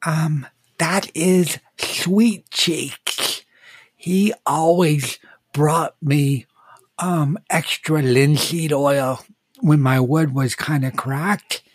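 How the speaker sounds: a tiny voice from inside the bag; twinkling breathy fairy whisper. Acted. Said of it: "you hear a little voice kinda whispering".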